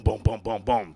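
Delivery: even, punchy knocking booms; imitated door pounding. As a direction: voice repeated bangs on a door. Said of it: "And I hear boom".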